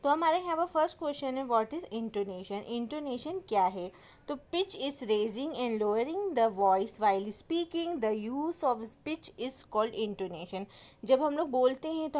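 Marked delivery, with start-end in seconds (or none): 1.5-2.5 slow, careful reading of the question. Shown as a demonstration. Teacher reading the exam question slowly. 4.4-10.6 very slow, deliberate definition reading; slow dictation. Shown as a demonstration. Teacher dictating the definition to students slowly.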